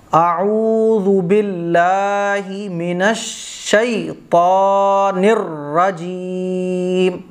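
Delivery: slow, drawn-out chanted recitation; Quranic recitation. Shown as a demonstration. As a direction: recite it in full tajweed. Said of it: "بالکل صحیح تلفظ".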